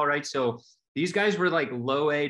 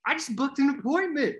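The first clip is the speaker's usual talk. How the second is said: high proud beaming reply; high, glowing pride; 12 semitones higher than usual. Retold or imitated. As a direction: announce it like a trophy. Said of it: "I was like".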